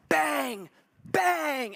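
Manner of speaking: high, loud commentator call; announcer's double bang call. Retold or imitated. Preacher mimics the announcer calling the winning shot, loud. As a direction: belt it like the play-by-play man. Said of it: "and then we hear".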